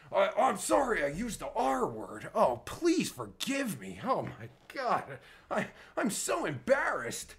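sarcastic, hammed-up pleading; mock apology. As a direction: fake being mortified, dragging out the plea. Fake apology for using R word.

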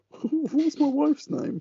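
very slow, drawn-out command; repeating to voice assistant. Real, not acted. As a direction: say each word slowly for the machine. Asking the voice assistant again.

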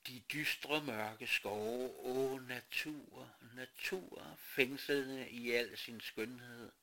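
slow, rapturous nature poem; poetic recital. Acted. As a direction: declaim with longing.

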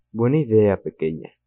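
lightly deepened cavernous monster voice. Acted. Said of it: "le dijo con voz cavernosa".

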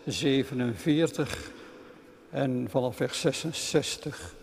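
measured, solemn reading of the Bible passage; scripture reading. Acted. Lector reading scripture to the congregation, measured and solemn. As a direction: read it out like a lector in church.

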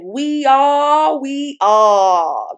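voice of the We. Retold or imitated. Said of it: "That's how they sound".

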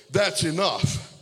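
slow, commanding "That's enough"; Holy Spirit speaking. Retold or imitated. The Holy Spirit tells the young man, slow and commanding. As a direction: let it fall with slow authority. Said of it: "the Holy Spirit said".

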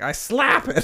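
put-on girly voice. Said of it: "and she's like".

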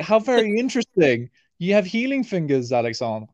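imitated Russian accent, starting high and falling; thick Russian accent. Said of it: "in his very thick Russian accent".

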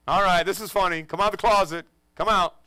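calling out. Retold or imitated. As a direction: call into the room, half amused.

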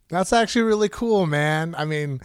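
grinning while talking; smiling voice. Real, not acted. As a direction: say it with a real smile. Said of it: "I'm smiling right now".

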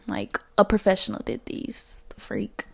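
soft sassy whisper; whispered aside. Real, not acted. To nosy onlookers, a sassy whisper. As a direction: drop to a teasing whisper.

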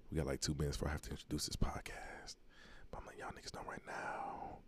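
sly whispered voice; sneaky whisper. Pretend. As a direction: whisper it like you're up to something. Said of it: "that's my sneaky voice".

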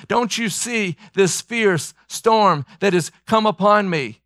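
anguished prayer, voice pitched high; desperate plea. Acted. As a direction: beg God to wake up and act. Preacher voices a desperate plea to God.

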